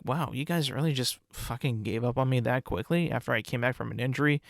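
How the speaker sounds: a hint of a wounded player; quietly wounded Mac Jones; imagined hurt quarterback. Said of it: "Mac Jones is probably gonna be like".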